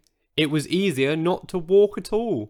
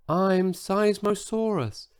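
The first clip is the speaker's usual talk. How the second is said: a small, higher, soft voice for a huge dinosaur; tiny voice; 6 semitones higher, 3 dB quieter, slower than usual. Acted. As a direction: make the giant sound surprisingly tiny. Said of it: "in a voice so tiny".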